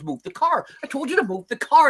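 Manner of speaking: imitating an impatient dealer barking orders; retold yelling. Retelling the dealer yelling at him, a mock yell. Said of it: "The guy's yelling at me".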